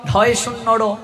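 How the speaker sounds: ঢয় with a breathy aspirated first sound; wrong pronunciation. Shown as a demonstration. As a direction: say ঢয় শূন্য র run together, wrongly aspirated. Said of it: "সব ভুল।".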